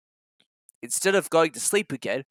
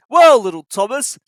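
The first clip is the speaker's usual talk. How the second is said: chuckling; 5 semitones higher, 10 dB louder than usual. A narrator's reading. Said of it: "chuckled Gordon as he passed".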